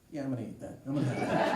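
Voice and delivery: low, soft possum talking to itself. Acted. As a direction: play a possum quietly sizing up dinner. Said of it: "Looks at a chicken and goes".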